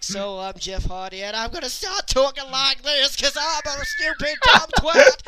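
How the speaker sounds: builds to a loud mocking yell; mock Jeff Hardy. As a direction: ham up a dumb wrestler's promo. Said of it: "They were like".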